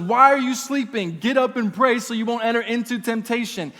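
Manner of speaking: mildly acted urgent wake-up call; rousing rebuke. Jesus waking sleeping disciples.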